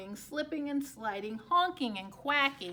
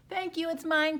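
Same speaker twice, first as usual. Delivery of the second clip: louder, proud claim; the duck loudly claiming the egg; proud quack; 5 semitones higher, 8 dB louder than usual. A narrator's reading. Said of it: "quacked Duck".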